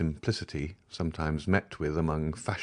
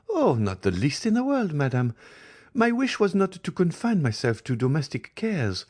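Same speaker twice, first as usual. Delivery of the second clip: higher-voiced young woman, firm and proud; firm Eugénie; 8 semitones higher than usual. A narrator's reading. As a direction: state her freedom with firm conviction. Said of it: "pronounced these words with so firm a tone".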